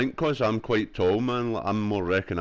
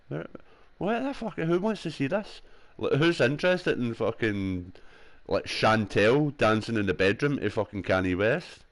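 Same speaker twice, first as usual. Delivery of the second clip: incredulous outrage; 3 semitones higher than usual. Retold or imitated. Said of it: "And I'm like".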